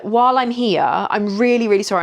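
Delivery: apologetic. Retold or imitated. Patient in labour to student midwife, apologetic. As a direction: gently plead an apology, leaning on "really". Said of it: "I was so apologetic".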